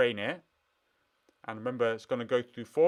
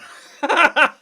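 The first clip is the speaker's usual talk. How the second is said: delighted laugh; 13 dB louder than usual. Real, not acted. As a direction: burst of happy laughter. Model finally works.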